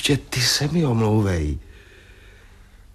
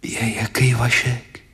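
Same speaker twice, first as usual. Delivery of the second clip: whisper; slower than usual. Acted. Surprised reply in hush.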